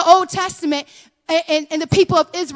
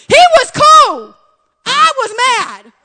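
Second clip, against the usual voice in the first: laughing confession; 11 semitones higher, 10 dB louder, slower than usual. Real, not acted. Laughing admission.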